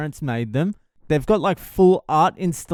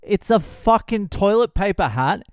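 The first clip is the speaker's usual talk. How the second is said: defensive; 5 semitones higher than usual. Retold or imitated. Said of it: "I'm like".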